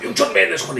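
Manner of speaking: high, loud angry scolding; angry outburst. Retold or imitated. Posh teammate scolding Oliver, high furious outburst. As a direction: lose it at him. Halliday losing it.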